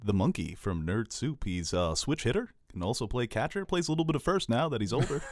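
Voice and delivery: put-on old-time radio baseball announcer. Shown as a demonstration. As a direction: call it like a minor league radio man. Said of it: "I'm gonna speak like a baseball announcer on the radio".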